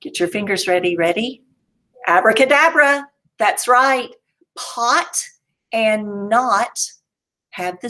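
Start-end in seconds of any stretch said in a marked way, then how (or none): 2.1-3.1 magic word. Shown as a demonstration. Teacher's magic reveal chant.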